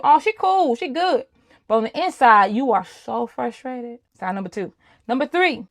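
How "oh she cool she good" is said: airy mock-casual quote, higher; breezy "she's fine" voice, pitched up; a light, carefree take on outsiders' opinion; imitating people's view. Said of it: "they think you".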